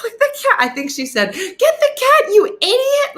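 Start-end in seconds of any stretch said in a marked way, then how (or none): 0.0-0.6 high loud yell; high mock yell; shouted answer. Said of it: "She's like". 1.3-3.1 high furious yell, slowed; high screaming mock fury; angry shout. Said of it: "she was so mad".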